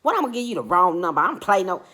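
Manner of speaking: rude comeback. Retold or imitated. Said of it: "that's how she was talking to me".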